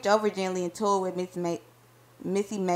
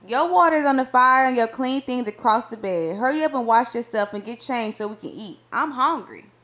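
louder, brisk call from the kitchen; bossy loving wife; 3 semitones higher, 5 dB louder than usual. Acted. Wife calling husband to wash up, loud and bossy. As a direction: hurry him along, playful and loud.

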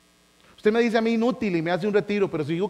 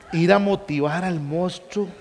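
slow, deliberate repeat. Shown as a demonstration. Repeating the friend's request to the audience, slow and deliberate. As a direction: spell out "Ir a motivar al monstruo" slowly, word by word. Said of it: "¿Ah?".

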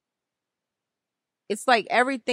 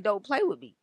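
divine voice. Retold or imitated. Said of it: "I hear the Most High in my mind".

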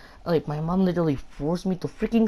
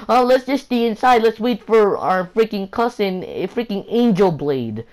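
high, loud mimicked suggestion; imitating cousins; 7 semitones higher, 5 dB louder than usual. Vlogger retelling his cousins' plan, mimicking them. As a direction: pitch it up as the cousins, easing down. Voicing the cousins' decision to wait.

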